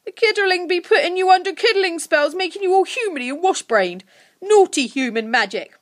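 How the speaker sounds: loud goblin accusation; high and forceful, falling at the end; accusing creature. A narrator's reading. Creature accuses Lucy of casting spells, angrily.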